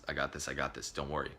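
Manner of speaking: calm the friends down gently. Retold or imitated. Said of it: "and I said".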